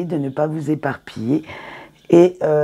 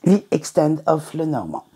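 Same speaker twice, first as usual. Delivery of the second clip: English title said with a French speaker's accent; her own English accent. Real, not acted. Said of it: "excusez mon accent anglais". (titre anglais avec un accent français)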